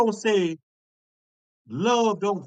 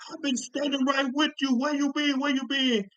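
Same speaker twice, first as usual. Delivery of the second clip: higher-pitched acted reproach; mock-dramatic, raised-pitch protest; hurt movie wife; 5 semitones higher than usual. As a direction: imitate a wronged wife confronting her husband. Acting out wife in movie scene.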